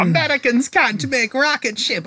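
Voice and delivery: high, drawn-out mock Russian accent; terrible Russian accent. Retelling a wrestling show's villain scoffing at Americans, terrible Russian accent. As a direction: put on a bad Russian accent, high and slow. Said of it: "that was a terrible accent".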